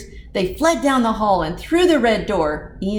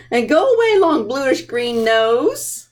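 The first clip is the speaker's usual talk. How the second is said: playful banish; 4 semitones higher than usual. Real, not acted. Removing monster pieces with kids.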